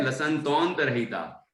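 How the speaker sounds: लसन तोंत रहिता with no आ sound, तोंत joined straight to रहिता; model reading. Shown as a demonstration. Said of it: "ऐसे पढ़ना".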